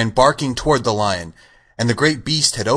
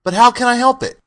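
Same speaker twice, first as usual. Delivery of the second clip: high, loud cowardly-lion lament; helpless, pitched-up admission of shame; ashamed lion; 14 semitones higher, 7 dB louder than usual. A narrator's reading. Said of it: "hanging his head in shame".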